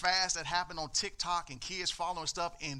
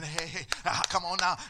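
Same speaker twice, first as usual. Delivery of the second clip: hype man; 6 dB louder than usual. Retold or imitated. Mimics church hype man.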